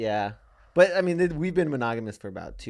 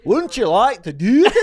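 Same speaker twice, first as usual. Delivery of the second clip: high hammed-up come-on, laughing through it; mock porn seducer; 9 semitones higher, 11 dB louder than usual. Podcast host acting out a porn scene, mock sleazy come-on voice. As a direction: ham up a sleazy seducer, giggling.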